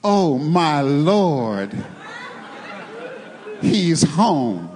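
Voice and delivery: slow, adoring "Oh, my Lord, he's home" said with honor; husband comes home, wife greets him reverently, slow and tender; reverent greeting. Shown as a demonstration. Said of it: "listen, you say".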